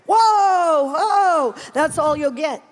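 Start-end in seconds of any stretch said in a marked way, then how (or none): 0.1-1.5 loud high whoa, whoa, falling off; spirit whoa. Retold or imitated. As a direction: let out a rapt, falling whoa as if overcome. Knocked down in the spirit.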